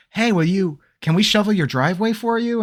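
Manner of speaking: imitating eager kids. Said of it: "they go".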